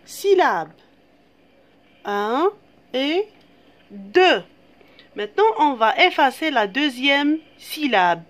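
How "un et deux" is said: counting syllables. Shown as a demonstration. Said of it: "il y a deux syllabes".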